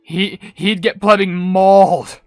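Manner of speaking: loud, drawn-out punchline; slow down and belt out the last word; emphatic exclamation. Real, not acted. Host picturing the cookie among cats, loudly emphatic.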